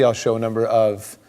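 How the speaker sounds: ordinary talk, nothing marked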